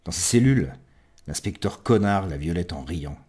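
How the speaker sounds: low-key storytelling poetry reading; subdued recital, phrase by phrase; narrative poem recitation. Acted.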